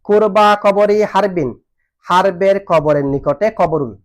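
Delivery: slow, measured chanting of the Arabic verse; slow verse recitation. Shown as a demonstration. Teacher reciting a verse line to students, slow and measured. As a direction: recite each word slowly for the class.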